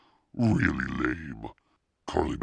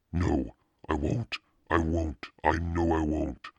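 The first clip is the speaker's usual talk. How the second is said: put-on bright, slightly higher girl's voice, crowing that she won; exclaiming gleefully as she gets her way; girl gleefully exclaiming to the shop owner; 4 semitones higher than usual. A narrator's reading. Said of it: "Carly Beth exclaimed gleefully".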